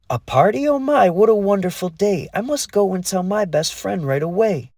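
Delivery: a fairy bursting with joy; excited fairy. A narrator's reading. Lee thrilled by the invitation.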